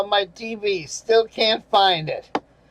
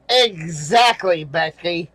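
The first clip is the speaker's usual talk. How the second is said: emphatic agreement; 4 semitones lower than usual. Real, not acted.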